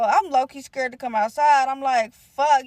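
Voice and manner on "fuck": frustrated curse. Retold or imitated. Scared, rival outside the house.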